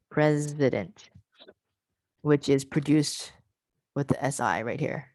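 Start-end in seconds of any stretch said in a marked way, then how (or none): 0.1-1.1 slow "President" with the Z held; drawn-out Z. Shown as a demonstration. Teacher showing where the Z sound is, "President" with a held Z. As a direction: linger on the Z inside "President". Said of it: "That Z sound".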